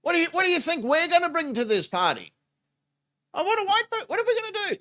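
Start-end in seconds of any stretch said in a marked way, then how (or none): 3.3-4.8 high, mocking disbelief; incredulous rant. Real, not acted. Ranting at the arrested man, high and incredulous. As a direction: scoff at the demand.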